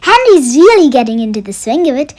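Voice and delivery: excited postcard. Acted. Herman's cheerful postcard read aloud.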